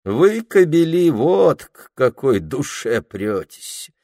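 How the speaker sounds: high, loud sneer then slow; contemptuous accusation; scornful outburst. Acted. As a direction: spit the words at the men. Anfisa scorning men.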